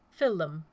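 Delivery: crisp, precise consonants on "Fill them"; each consonant of "Fill them" clipped clean. A narrator's reading. Taylor demanding the sacks, crisp precise consonants. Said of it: "she said, consonants precise".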